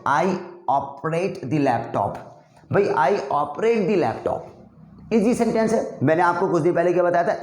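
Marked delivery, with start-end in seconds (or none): 0.1-2.2 each word slow and clearly separated; slow drill sentence. Shown as a demonstration. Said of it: "तो आज मैं sentence आपके पास लेकर आया हूँ". 2.8-4.4 each word slow and clearly separated; slow drill sentence. Shown as a demonstration. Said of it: "तो आज मैं सेंटेंस आपके पास लेकर आया हूँ".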